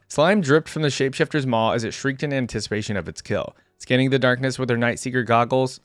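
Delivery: measured story-reading voice; story narration. A narrator's reading. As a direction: read it like an audiobook action scene. Reads story aloud.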